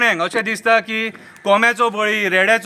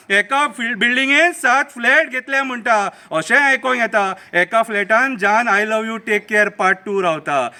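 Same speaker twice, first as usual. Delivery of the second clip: measured satirical verse recital; mocking political poem read aloud; poem recitation; 3 semitones higher than usual. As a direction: recite it as rhythmic verse, letting the line endings fall.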